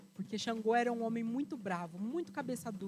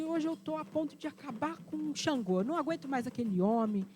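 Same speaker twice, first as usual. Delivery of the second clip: furious rant; 3 semitones higher than usual. Acted. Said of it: "nervosa, disse".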